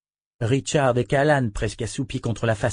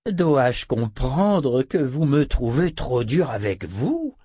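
feigned surprise; 2 semitones higher, slower than usual. Acted. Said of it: "jouant à merveille la surprise et la sincérité".

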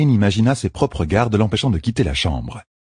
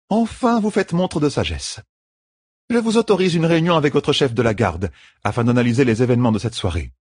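higher, steady caregiver's voice; firm midwife; 7 semitones higher than usual. A narrator's reading. Midwife explains the treatment to the queen, firmly. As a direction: lay out the rules kindly but firmly.

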